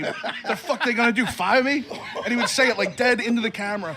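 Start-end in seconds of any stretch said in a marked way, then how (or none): 0.0-1.8 higher, louder, laughing defiant brag; cocky Dream impression. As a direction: toss it off like a reckless star.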